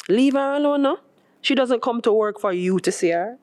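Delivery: a hint of mock defence; playful retort. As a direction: scold the friend playfully. Tyrone defends Maribel.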